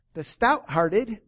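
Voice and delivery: drawn out and loud; slow, heavy emphasis. Real, not acted. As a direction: stretch each syllable for weight.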